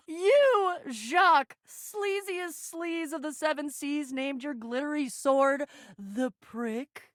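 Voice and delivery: slow, softened, savoring mockery; mocking disbelief. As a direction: spell out the title slowly. Mocking Jacques's sword name.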